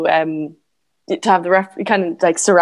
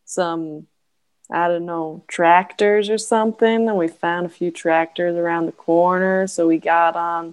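put-on Southern accent. Telling a friend about riding tractors, in a Southern accent. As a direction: stretch the vowels like a Southern storyteller. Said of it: "That's pretty good".

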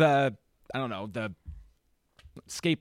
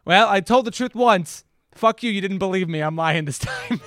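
louder, mock-defiant rant; defiant kid; 3 semitones higher, 6 dB louder than usual. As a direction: spit it out like a spiteful kid. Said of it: "the kid in this movie is just like".

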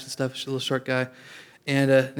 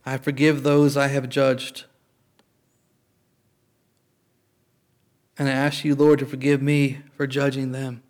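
slow, deliberate prayer phrases; measured repeat-after-me prayer; leading a prayer. Real, not acted. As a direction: leave room for the room to repeat.

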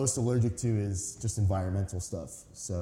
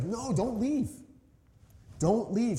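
higher, mock desperate begging; pleading disciples; 11 semitones higher, slower than usual. Disciples begging Jesus not to leave them, mock pleading. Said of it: "No, it's like".

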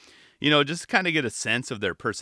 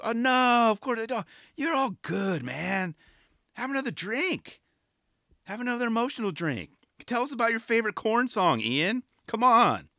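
teasing hosts; 9 semitones higher than usual. Retold or imitated. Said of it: "hosts egging on Ian".

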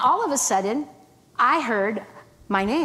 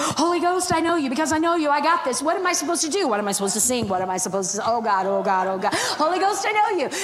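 frantic prayer; 4 semitones higher than usual. Retold or imitated. Panicked silent prayer.

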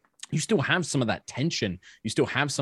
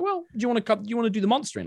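encouraging invite; 11 semitones higher, much faster than usual. Retold or imitated. Coaxing partner to try monstering.

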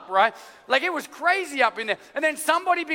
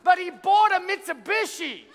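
mock interpreter; 7 semitones higher than usual. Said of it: "someone else over here is gonna interpret".

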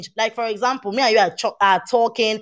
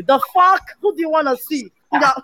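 raised pitch, indignant retort; indignant outburst; 3 semitones higher than usual. Retold or imitated. Outraged reaction to the late reply.

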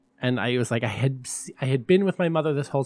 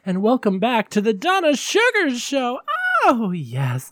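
higher, drawn-out diva hostess voice; campy drag hostess; 10 semitones higher, 4 dB louder than usual. Acted. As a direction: greet the darlings like a glamorous hostess. Drag hostess greeting persona.

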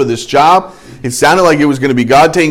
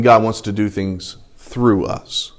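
slow and lower, "through" set apart after a pause; pause, then land deliberately on "through"; stress on "through"; 4 semitones lower, 3 dB quieter, slower than usual. Shown as a demonstration. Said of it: "remember what I said at the very beginning".

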